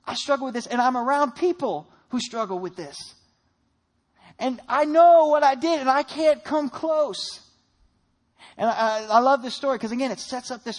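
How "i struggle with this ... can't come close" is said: desperate confession. Acted. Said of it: "he said".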